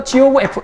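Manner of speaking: "G of F" read slowly as "지 오브 에프"; demonstrated reading. Shown as a demonstration. Teacher models the notation for students, reading "G of F" slowly. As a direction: draw out "G of F" in Korean-accented syllables. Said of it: "느낌 있잖아".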